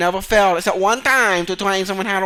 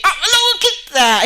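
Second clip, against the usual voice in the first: much higher, louder, slow disbelief; loud exclamation; 11 semitones higher, 5 dB louder than usual. Real, not acted. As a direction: cry out at the second crash. Crash clip again.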